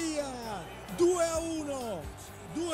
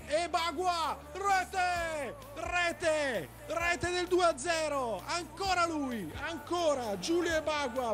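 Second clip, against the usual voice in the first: fast, urgent play-by-play of goals; breathless italian goal commentary. Real, not acted. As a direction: call the goals with rising urgency. (telecronaca del gol senza fiato)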